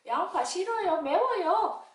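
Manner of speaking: put-on high whiny kid complaint; puppet child complaining. Child puppet whining that onions are spicy, high pitched.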